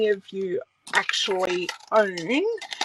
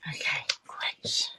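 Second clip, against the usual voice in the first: whispering; 7 dB quieter than usual. Real, not acted. Aside to self.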